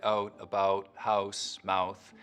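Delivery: slow word list, mid-mouth start to the ow; Canadian raising. Shown as a demonstration. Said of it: "only affects syllables that end".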